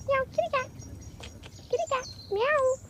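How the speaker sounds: high coaxing pet call; sing-song call to lure the cat; calling kitty. Real, not acted. Calling the cat over in a high coaxing voice.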